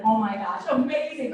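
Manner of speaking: mock-impressed customer gushing, loud; gushing review. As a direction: gush like a happy reviewer. Glowing review acted out.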